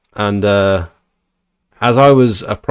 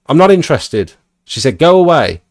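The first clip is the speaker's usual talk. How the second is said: higher, sharp dismissive voice; mock angry old lady; 6 semitones higher, 3 dB louder than usual. Old lady sending the leaflet man away, mock angry. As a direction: brush him off like a cross old lady. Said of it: "totally unnecessarily angry".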